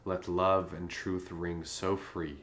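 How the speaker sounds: measured, understated love-poem reading; poem recitation. Acted. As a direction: recite formal verse to a queen, pausing between phrases.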